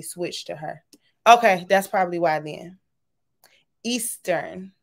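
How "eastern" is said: whispering Eastern to herself; whispered. Real, not acted. Host murmuring a viewer's time zone, whispered. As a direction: breathe the word Eastern without voice.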